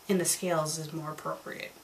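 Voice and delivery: ordinary talk, nothing marked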